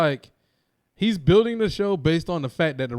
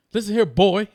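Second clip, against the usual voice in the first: higher, louder mock wrestler promo; mocking tough talk; 5 semitones higher, 7 dB louder than usual. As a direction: imitate a wrestler talking down to a rival. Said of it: "why is he talking like this".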